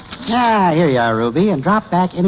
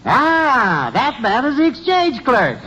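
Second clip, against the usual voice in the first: sarcastic; 3 semitones higher than usual. Acted. Mocking clerk explains sign.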